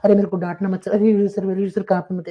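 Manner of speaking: a touch of a whiny student begging sir; mock pleading student. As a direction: whine at the teacher in mock panic. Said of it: "तेरा master तेरे को देख के तो ऐसे करता होगा".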